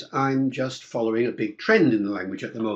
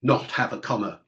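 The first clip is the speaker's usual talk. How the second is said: lightly voiced rule-maker, leaning on "always"; prescriptive rule-maker; 4 dB louder than usual. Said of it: "A prescriptive approach would say".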